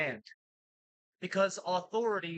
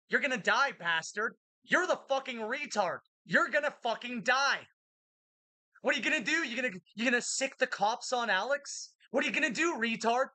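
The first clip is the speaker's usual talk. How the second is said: angry yelling; 5 semitones higher than usual. Real, not acted. Yelling at the Earl.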